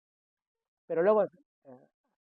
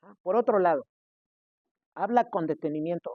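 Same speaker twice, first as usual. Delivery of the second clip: normal talking voice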